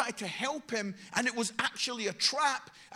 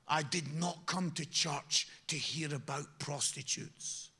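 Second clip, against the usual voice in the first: put-on a grumbling old churchgoer in a hushed low voice; disapproving old gentleman; 8 semitones lower than usual. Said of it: "an old gentleman came out and he says".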